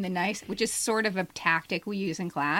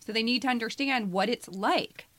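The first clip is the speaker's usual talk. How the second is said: insistent defence; 5 semitones higher than usual. Real, not acted. Defending her piece to co-host.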